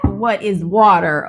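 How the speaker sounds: deliberately slowed re-take; carefully spaced out, each word clear. Shown as a demonstration. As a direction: say "What is water?" slowly, word by word, stressing "water". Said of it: "Let me slow down".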